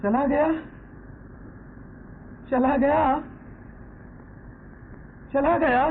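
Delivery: each word breaking further in shock; stunned grief. Acted. Father learning his son has gone, stunned and grieving.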